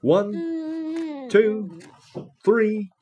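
straining count-off. Acted. Farmer counts the big pull.

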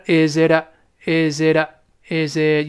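"is it" linked, t softened to a light d; soft flapped t. Shown as a demonstration. Teacher showing students how t softens, soft flap in "is it". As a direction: say "is it" slowly with a lightly voiced, d-like t. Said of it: "这个t又会轻轻的浊化".

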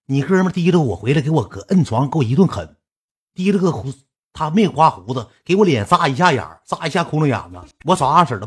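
imitated loud, indignant complaining; retold wailing complaint. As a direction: act out an aggrieved caller, without real sobs. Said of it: "对面传来了嗷嗷大哭之声".

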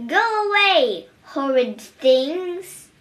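put-on high, loud shout at the children. A narrator's reading. Grumpy old mouse shouting at children, loud. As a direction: yell them off the street. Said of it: "he would shout".

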